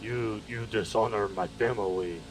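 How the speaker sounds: slow, put-on Japanese accent; measured caricature Japanese accent; mock Japanese accent. Showing off an accent on request, mock Japanese accent. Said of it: "I'm doing Japanese though".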